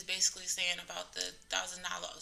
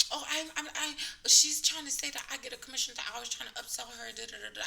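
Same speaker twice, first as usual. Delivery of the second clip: higher, whiny imitation, speeding up; mock her tattling to the manager; mock whiny staffer; 4 semitones higher, 4 dB louder, faster than usual. Coordinator tells the manager the patient accused her, higher mock-whiny voice.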